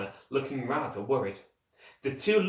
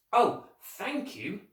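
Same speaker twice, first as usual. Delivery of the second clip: joyful thanks; 9 semitones higher, much slower than usual. A narrator's reading.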